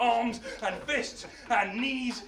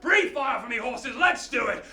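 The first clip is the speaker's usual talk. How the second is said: rousing command; 5 dB louder than usual. Acted. Hercules commands horses.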